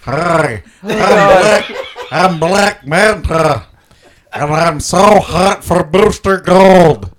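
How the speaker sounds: through a scuba regulator. Pretend. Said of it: "You sound like Lou Gossett Junior from Enemy Mine".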